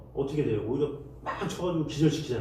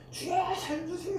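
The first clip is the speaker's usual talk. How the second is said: much higher, thin cry for rescue; frantic plea; 4 dB quieter than usual. Retold or imitated. Preacher mimicking a panicked believer, high pleading cry. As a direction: beg God in panic. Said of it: "이렇게 하는 거예요".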